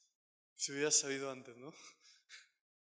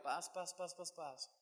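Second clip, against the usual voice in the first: fading softer to a near hush; 10 dB quieter, slower than usual. Retold or imitated. Preacher recalls the calm after praying, hushed and fading. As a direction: let each peace sink quieter. Preacher describes feeling peace.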